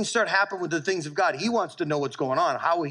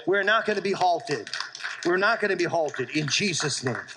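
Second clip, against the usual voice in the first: worked up. Real, not acted. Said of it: "I'm worked up".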